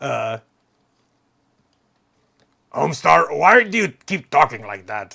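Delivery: loud, swooping, swinging cartoon voice, belted out. A fan who watched Homestar Runner as a teenager does the Strong Bad voice. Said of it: "when I do the strong bad voice".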